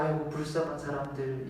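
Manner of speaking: a quiet sigh over poor people; mild pity. Retold or imitated. Jesus merely pitying the mourners, soft sigh. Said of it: "이게 아니라".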